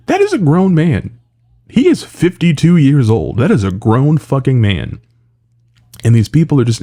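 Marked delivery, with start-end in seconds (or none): 0.1-5.0 emphatic exasperation. Real, not acted. Insisting against fans babying a man.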